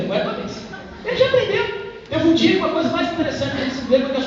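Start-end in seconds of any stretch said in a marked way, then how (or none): 0.0-0.6 whispered repeat of the line. Retold or imitated. Father retelling his son's words, whispered. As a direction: breathe it out in a whisper. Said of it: "Eu permaneci ali".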